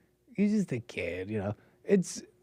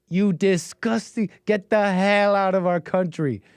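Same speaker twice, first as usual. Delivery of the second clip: slow, slightly raised imitation of an angry kid; half-hearted angry quote, stretched out; mock outrage; 4 semitones higher, slower than usual. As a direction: draw out each word in mock indignation.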